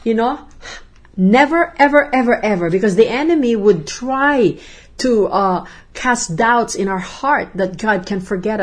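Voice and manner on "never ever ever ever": louder and higher never, ever, ever; excited agreement, each never and ever punched; emphatic echo. Real, not acted. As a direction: stamp each word with real conviction. Echoing the promise with emphasis.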